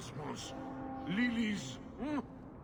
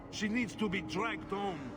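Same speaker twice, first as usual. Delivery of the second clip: indignant outburst; 6 semitones higher than usual. Acted. Husband rants about runaway wife.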